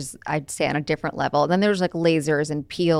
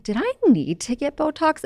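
self quote; 9 semitones higher than usual. Retold or imitated. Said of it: "But I'm like".

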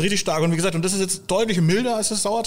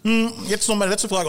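mouth full; 5 semitones higher than usual. Real, not acted. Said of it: "wenn man mit vollem Mund spricht".

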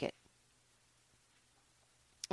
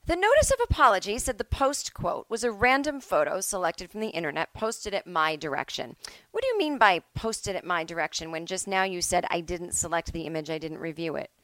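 mock judge. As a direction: catch him in the contradiction. Judge voiced confronting contradiction.

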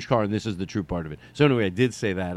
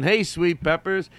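playful greeting; 5 semitones higher, slower than usual. Shown as a demonstration. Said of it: "it was a fun".

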